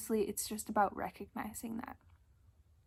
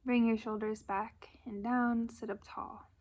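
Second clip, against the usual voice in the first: calm, unhurried guidance with long pauses; gentle meditation leader's delivery; guided meditation. Acted. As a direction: ease listeners into breath and body, leaving space. Leads a breathing meditation.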